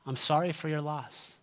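soft, simple condolence; understated, sincere sympathy. Shown as a demonstration. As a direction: say it quietly and leave it there. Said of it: "I wanna give you two magical words".

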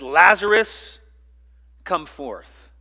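a summons, Lazarus called out loud; lightly voiced commanding Jesus. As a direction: call him out of the grave. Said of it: "He didn't ask".

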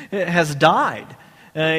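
ordinary talk, nothing marked

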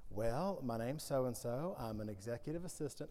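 a hint of Adam Sandler, shrinking into the words; mild Adam Sandler. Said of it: "fight not to do an Adam Sandler impression".

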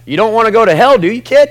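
loud, high, pressing preacher's push; preaching at full force. Retold or imitated. Preacher pressing the congregation at full force. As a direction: push it hard from the pulpit like a revival preacher. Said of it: "a guy like me was like".

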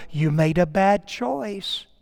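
slow, measured gentle correction; lightly voiced teacher correcting a small child; patient, deliberate little reprimand; teacher to preschooler. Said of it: "she would say to a little three-year-old".

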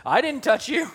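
quick innocent denial; denying crowd. Retold or imitated.

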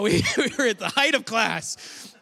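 laughing through the line; self-mocking laugh; amused, laughing at his family. Real, not acted.

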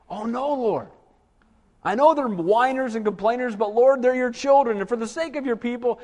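lightly voiced pleading Moses; a hint of a pleading intercessor. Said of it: "what did Moses do".

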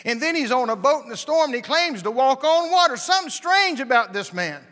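loud, high, driving sermon climax; rising revival preacher, loud and high; full-force preaching. Acted. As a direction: preach it hard, building to a shout.

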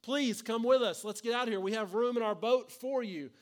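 urgent plea. Retold or imitated. Boat rescuer pleading with the stubborn man, urgent. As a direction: beg him to get in the boat. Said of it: "A person in a boat says".

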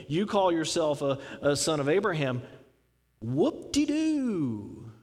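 dismissive, sarcastic, dragging out the whoop-de-doo; mocking scorn. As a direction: scoff at their pride, stretching the last words. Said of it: "That's how they would say".

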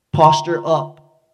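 slow, loud commanding call; preacher's big slow shout of "posture up."; emphatic preaching. Acted. Preacher drives the point home.

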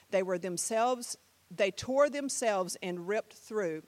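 slowing, measured poem reading; rhythmic poetic phrasing; spoken-word recital. Shown as a demonstration. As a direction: recite line by line with weighted words. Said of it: "this is a spoken word here".

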